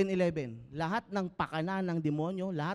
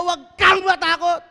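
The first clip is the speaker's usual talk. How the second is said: loud, high cry of huwag kang matakot; loud urging; 12 semitones higher, 13 dB louder than usual. Acted. Pastor telling the congregation what to say, loud. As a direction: call it out boldly.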